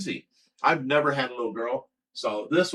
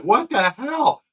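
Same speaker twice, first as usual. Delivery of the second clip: shocked; 8 semitones higher, much slower than usual. Retold or imitated. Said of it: "I was like".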